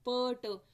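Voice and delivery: प, ट as short p and t sounds, each released with a brief vowel; phoneme sounds. Shown as a demonstration. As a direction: sound out प, ट, not pee and tee. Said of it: "sounds को हम इन brackets में लिखते हैं".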